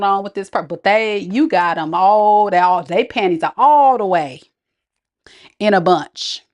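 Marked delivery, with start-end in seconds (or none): 5.6-6.4 hushed "in a bunch"; conspiratorial whisper; whispered aside. Real, not acted. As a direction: drop to a whisper for the joke. Whispered punchline.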